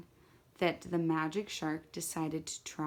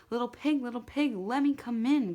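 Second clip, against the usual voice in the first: higher, louder shark calling, getting upset; growing upset; 6 semitones higher, 3 dB louder than usual. A narrator's reading. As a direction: call sweetly at first but let the impatience break through. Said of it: "called the magic shark, growing upset".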